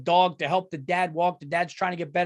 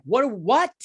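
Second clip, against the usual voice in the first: baffled; 5 semitones higher, 5 dB louder than usual. Retold or imitated. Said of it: "I, I was like".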